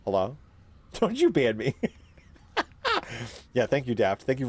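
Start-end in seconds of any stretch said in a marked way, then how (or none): 0.9-1.8 laughing, playful don't you dare; laughing mock warning to the chat; laughing protest. Real, not acted. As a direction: tease through a giggle. Joking at chat.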